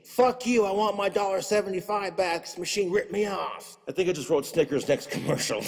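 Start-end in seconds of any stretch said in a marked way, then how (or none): 0.0-3.8 angry retort. Retold or imitated. Customer yelling back at the worker, angry retort. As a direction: tell him off, outraged. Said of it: "quit shaking the machine".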